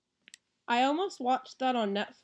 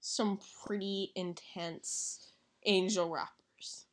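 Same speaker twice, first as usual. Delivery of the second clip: whisper; 2 semitones lower, 5 dB quieter, slower than usual. Real, not acted. Joking answer, whispered.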